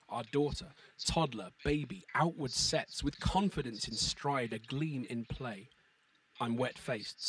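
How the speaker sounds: slow, measured sonnet reading; poetry reading voice. Acted. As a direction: read it with metre and rhythm. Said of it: "a certain poetry reading voice which you fall into".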